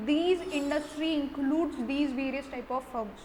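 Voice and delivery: slow, word-by-word dictation pace; slow note dictation. Acted. Teacher dictating notes to students, slow and deliberate. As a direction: spell it out so students can write it down.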